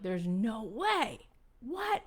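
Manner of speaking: stunned disbelief jumping up on the last word. Retold or imitated. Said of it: "I'm like".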